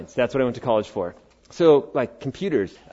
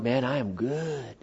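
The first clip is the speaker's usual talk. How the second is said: preen like you're shiny; lightly hammed-up self-satisfied voice; smug self-praise. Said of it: "you going".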